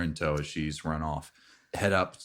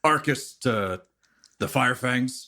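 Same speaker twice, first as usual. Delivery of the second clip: gentle bear person; 7 semitones higher, 6 dB louder than usual. Acted. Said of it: "my bear voice".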